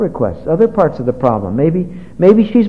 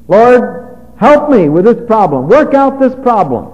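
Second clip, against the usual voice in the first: raised, pleading cry to the Lord; pleading prayer; 5 semitones higher, 5 dB louder, slower than usual. Pretend. Preacher acting out a vague prayer, loud pleading. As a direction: beg God loudly for help.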